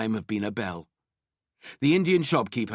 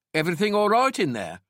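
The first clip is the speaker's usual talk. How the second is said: calling through door; 9 semitones higher, 5 dB louder than usual. A narrator's reading. Detective calls through door.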